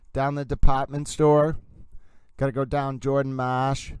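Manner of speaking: put-on playful Boston accent, R's dropped; imitated Boston accent. Streamer riffing on a judge's speech, mock Boston accent. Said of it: "I love the way Judge".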